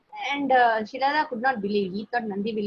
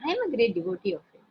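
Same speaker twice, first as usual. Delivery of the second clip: eager; faster than usual. Acted. Son repeats devotion quickly.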